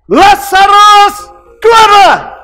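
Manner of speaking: long booming call, stretched slow; Jesus calling Lazarus out. Acted. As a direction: call the dead man out of the tomb. Demo for the boy again.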